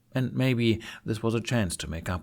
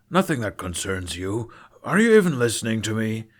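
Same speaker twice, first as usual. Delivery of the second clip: impatient father; 5 dB louder than usual. Acted. Father brushes off, then snaps.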